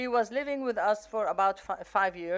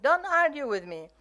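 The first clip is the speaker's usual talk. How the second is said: put-on a higher, louder snap at the child; mock yell; 6 semitones higher, 6 dB louder than usual. Mother cuts off her child with a sharp yell. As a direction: bark it back as the upset mother. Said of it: "And she yelled".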